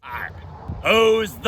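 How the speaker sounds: loud gruff pirate call. Acted. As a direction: bark it out like a pirate. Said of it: "Don't forget the pirate voice".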